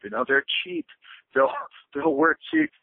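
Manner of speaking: high mock voice through a laugh. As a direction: chuckle it out in a high voice. Voicing brothers, laughing.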